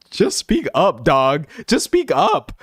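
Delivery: high-pitched, laughing-edged exasperation; exasperated plea. Pretend. Streamer tells flaky friends off, high exasperated plea. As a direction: plead it up high, playfully fed up.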